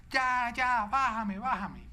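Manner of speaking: high, loud mock child pleading, fading at the end; lightly voiced panicky child; imitating scared child. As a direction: beg like a frightened kid on a swing. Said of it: "él empezaba a gritar".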